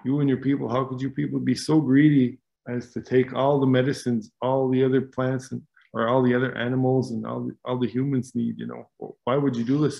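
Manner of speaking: mildly heated mock yell; retold scolding. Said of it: "He was yelling at him, screaming at him".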